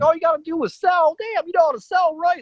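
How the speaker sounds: high-pitched mock yell; pep talk yelled up high, without full volume; imitated yelling. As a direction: imitate a friend hollering reassurance. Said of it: "he's, like, yelling at me".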